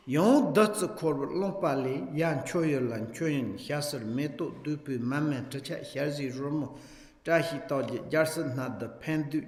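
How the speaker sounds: steady, rhythmic reading of Tibetan prayer text; a teacher reciting the offering prayer aloud; liturgical recitation. Acted. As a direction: read the verses in an even recitation cadence.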